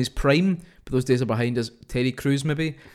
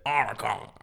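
Solid Snake voice; 5 dB quieter than usual. Retold or imitated. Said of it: "as soon as I try and say Otacon".

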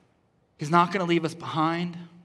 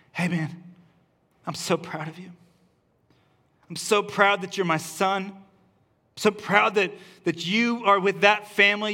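tender father's pride. Acted. God voiced speaking to his son.

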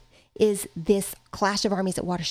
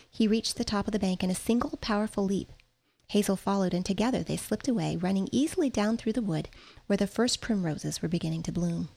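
calm read-aloud narration; story reading; 3 dB quieter than usual. A narrator's reading. Teacher reads novel aloud to class.

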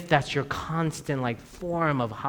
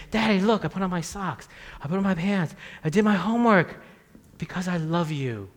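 loving son; 4 semitones higher than usual. Retold or imitated. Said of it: "if he ever came into my room and said".

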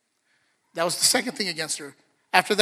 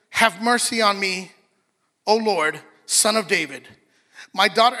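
desperate plea; 6 dB louder than usual. Retold or imitated. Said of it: "imagine she's crying".

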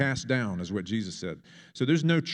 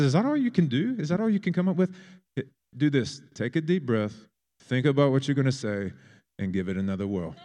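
put-on English accent; 2 semitones higher than usual. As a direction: goad him in an English accent. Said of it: "I've fallen into an English accent".

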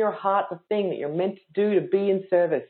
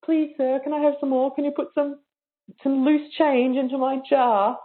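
lightly pleading, higher; mock-pitiful beggar asking for more; begging Oliver Twist; 4 semitones higher than usual. Younger me begging students for loose change, mildly pleading. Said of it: "I was begging people for".

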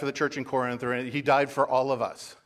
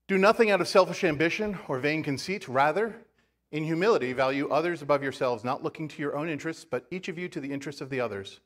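raised, deliberate Bible reading; scripture reading; 2 semitones higher than usual. Acted. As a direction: proclaim the verse to the congregation. Reads scripture to congregation.

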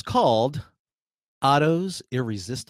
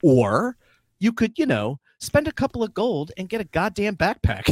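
reading through laughter; 6 semitones higher than usual. Real, not acted. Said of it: "read you the description they made".

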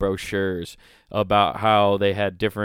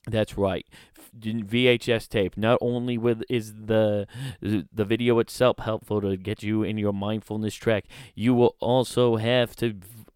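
mock New Jersey accent. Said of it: "a New Jersey person keeps crossing over into an Australian accent".

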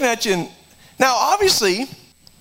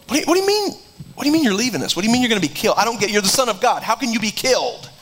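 disciples' confused protest; 2 semitones higher, much faster than usual. Retold or imitated. Disciples voiced in retelling.

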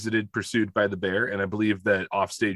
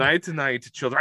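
lightly mocked Russian storyteller's accent; 4 semitones higher than usual. Storyteller bidding children goodnight, mock Russian accent. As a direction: sign off in a put-on Russian accent. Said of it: "I'm doing it again".

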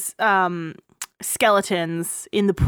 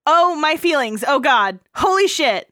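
dramatic reading of texts; 5 semitones higher than usual. Retold or imitated. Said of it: "the messages I sent you about the emotional climax".

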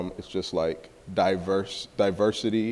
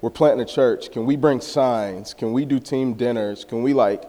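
higher, louder, eager questions; eager pitch to coach; 4 semitones higher, 5 dB louder than usual. Retold or imitated. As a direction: rattle off offers keenly. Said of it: "I'm like".

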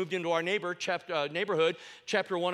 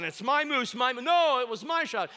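retold yelling; 6 semitones higher, 4 dB louder than usual. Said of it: "they were all yelling".

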